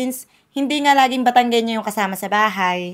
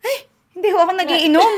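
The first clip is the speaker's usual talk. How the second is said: polite refusal; 8 semitones higher, 3 dB louder than usual. Retold or imitated.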